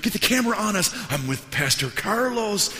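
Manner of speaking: high, loud mock showman; showboating famous pastor. Famous pastor calls his camera crew over, mock showboating. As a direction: play it up for the camera, stretching the name.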